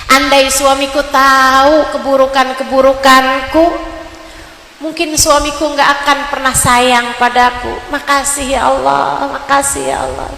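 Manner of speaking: grateful prayer. Acted. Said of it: "Saat suami lagi cinta".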